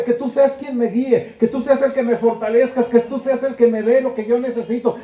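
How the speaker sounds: can hardly believe it, voice lifting with awe; joyful weeping prayer. Acted. Believer crying to God in disbelief, joyful and tearful. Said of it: "Es un llanto de alegría".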